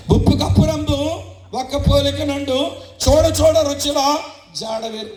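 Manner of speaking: put-on boy reciting his lesson loudly out of spite; loud resentful reciting. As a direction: bellow the poem like a sulky kid made to study. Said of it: "గట్టి స్వరం వేసుకొని చదువుతున్నాడు".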